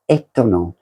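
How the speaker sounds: étonnant said the French way, nasal vowels and stress on the last syllable; French pronunciation. Shown as a demonstration. Vlogger says étonnant in French to viewers, French pronunciation. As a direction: give étonnant its French sound. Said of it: "as we say in French".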